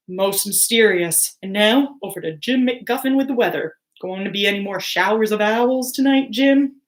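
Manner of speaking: lightly voiced newsreader; news read. TV newscaster reporting odd owls, news read. Newscaster hands over to weather.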